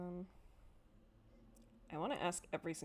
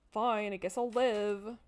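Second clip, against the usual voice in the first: mock resignation; 7 dB louder, slower than usual. Real, not acted. Loud slow mock resignation.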